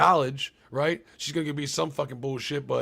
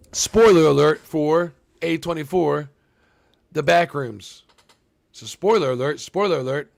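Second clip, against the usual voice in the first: slow, loud announcement, stretched words; loud spoiler warning; 7 dB louder than usual. Real, not acted. Streamer warning his chat of spoilers, loud and slow. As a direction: boom it out slow like a warning siren.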